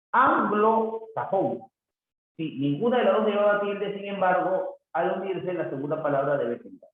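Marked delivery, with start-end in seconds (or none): 0.1-1.6 slow, higher-pitched sounding-out; sounded-out compound. Shown as a demonstration. Teacher showing a compound word, slowly sounded out. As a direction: draw out both halves, pitched up.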